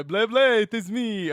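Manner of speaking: halting mock Irish accent; reluctant Irish attempt. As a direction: fumble an Irish accent, then give up. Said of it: "Do count trivia as Irish".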